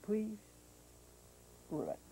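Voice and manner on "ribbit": low croaking ribbit; frog croak. Acted. Host asks the Swami frog to croak, low ribbit. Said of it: "would you say ribbit".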